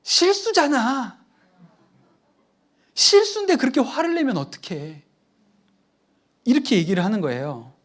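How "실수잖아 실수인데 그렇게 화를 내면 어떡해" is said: high, loud protest of a hurt son; imitating a child's indignant outcry; sudden yell. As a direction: burst out shouting back at dad. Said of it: "갑자기 버럭 저한테 소리를 질렀어요".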